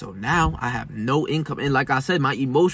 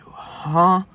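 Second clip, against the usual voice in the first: incredulous; much slower than usual. Retold or imitated. Confused, angry at the empty shelf.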